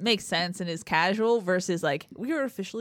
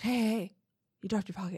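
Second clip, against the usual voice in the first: urgent, worried, earnest, really concerned delivery; 4 dB quieter than usual. Retelling Zach Banner's prank line: imitating Zach Banner sounding concerned. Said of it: "he'd look really concerned".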